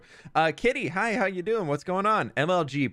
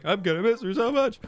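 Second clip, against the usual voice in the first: mock wistful whine; 8 semitones higher than usual. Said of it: "I'm just like".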